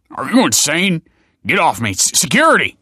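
loud, high panicked yell for security; the locksmith yells as Michael grabs him, panicked shouting; alarmed shout. Acted. Locksmith grabbed, shouting for help.

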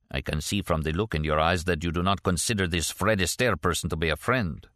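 lightly voiced Russian émigré character; a hint of a Russian accent, measured delivery; Kastner, accented former KGB man.

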